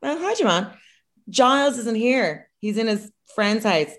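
high, drawn-out voice of a mother at the door; boyfriend's mother. Retold or imitated. Boyfriend's mother answering the door to his girlfriend, high mother voice. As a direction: lift it high for the mum's greeting. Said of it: "His mother answers the door".

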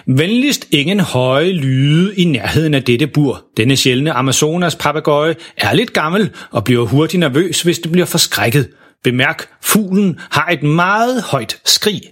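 langsom, tydelig oplæsning af et advarselsskilt; læs skiltet højtideligt op; læser skilt op. Acted. (højtidelig skilteoplæsning)

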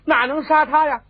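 high, loud string of orders; agitated elderly matriarch giving commands; frantic urgency. A narrator's reading. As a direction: order the servants to hurry at once. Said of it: "老太太后头急了".

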